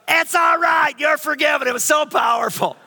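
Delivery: mom's words cried out high and loud; joyful shout. Retold or imitated. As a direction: call it out to the courtroom, overjoyed. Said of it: "stands to her feet and goes".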